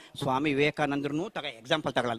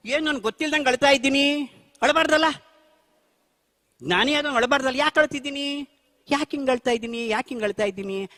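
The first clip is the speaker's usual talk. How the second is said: higher-pitched, bewildered self-questioning; mildly acted anguish, pitched up; retold distress; 6 semitones higher than usual. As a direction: replay asking yourself in distress, voice raised in pitch. Retells asking himself why he cried.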